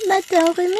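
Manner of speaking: put-on high, loud little girl asking; lightly voiced curious child; child's voice. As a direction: mimic a kid's surprised question. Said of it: "une copine de ma fille qui me dit".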